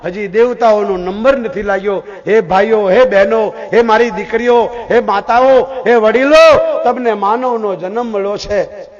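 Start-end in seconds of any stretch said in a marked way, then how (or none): 2.3-6.8 rising, louder appeal to each group, slowing at the end; calling out to all. Real, not acted. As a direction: call out to the crowd, building. Preacher calls out to audience. (શ્રોતાઓને ઊંચા અવાજે હાકલ)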